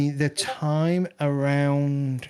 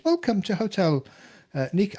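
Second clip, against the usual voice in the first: put-on a brief, pitched-up Asian accent, soon dropped; hint of an Asian accent; 8 semitones higher than usual. Hotel hostess welcoming the party, a trace of Asian accent. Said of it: "I'm not doing the accent".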